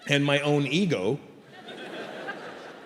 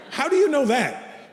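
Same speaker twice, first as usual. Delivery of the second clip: higher, drawn-out disbelief; raised-pitch puzzled retort; incredulous question; 9 semitones higher, slower than usual. Retold or imitated. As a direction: stretch it out, baffled and challenging. Patient questions the doctor's claim.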